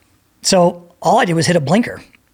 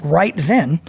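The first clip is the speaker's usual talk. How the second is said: ordinary delivery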